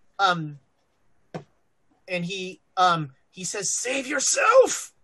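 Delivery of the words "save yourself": strained, high-pitched voice. Retelling what Don Julio says, imitating his strained voice. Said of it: "It sounds strained".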